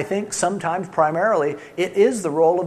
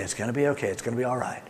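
soothing wife; 4 semitones lower, 6 dB quieter, faster than usual. Retold or imitated. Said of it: "she's the one who says".

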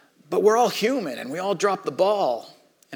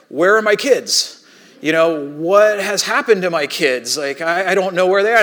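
rising panic; 2 semitones higher, 5 dB louder than usual. Retold or imitated. Realizing the kids are missing.

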